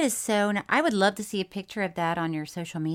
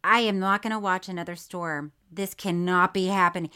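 firm refusal at usual pitch; understated disbelief, not yet raised; retold protest; 2 semitones lower than usual. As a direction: re-enact a contained first protest. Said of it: "because I was like".

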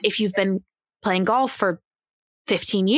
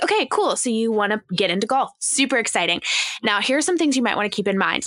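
upbeat inviting; faster than usual. Retold or imitated. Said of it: "that type of voice and perspective".

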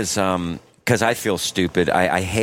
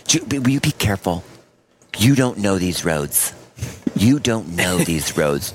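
nagging wife voice. Retold or imitated. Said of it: "and I'm driving".

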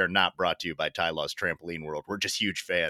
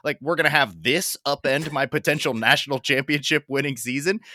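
high, mocking imitation of Harbaugh; hammed-up incredulous coach, pitched up; 5 semitones higher, 3 dB louder than usual. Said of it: "how can you be Harbaugh and be like".

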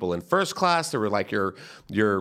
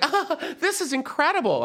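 much higher, fast amazed gasp; awed fan; 14 semitones higher than usual. Retold or imitated. Moviegoers marvelling at costumed kids, high amazement. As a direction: gush like a starstruck moviegoer. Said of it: "being like".

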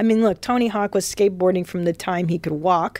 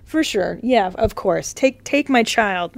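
mock eager parent; 3 semitones higher than usual. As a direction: play the parent who happily agrees. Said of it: "What parent goes".

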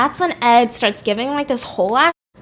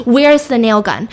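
angry; 5 dB louder than usual. Retold or imitated. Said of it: "she's getting mad".

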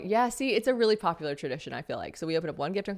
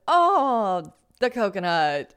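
high, louder mock cheer over the coconut; mock excitement; 3 semitones higher, 5 dB louder, much slower than usual. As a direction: fake delight at a coconut. Mock excited kid at Christmas.

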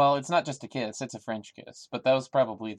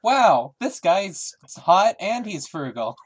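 much higher, louder, slow gush; mock swooning; 7 semitones higher, 8 dB louder, slower than usual. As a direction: gush like a smitten fan.

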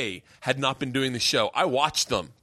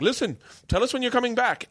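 high, put-on London accent, eager; suddenly chummy Londoner, hammed up; mock London accent; 10 semitones higher than usual. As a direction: win them back in a high London voice. Club staff suddenly friendly, imitated.

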